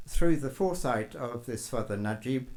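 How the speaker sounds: usual speaking voice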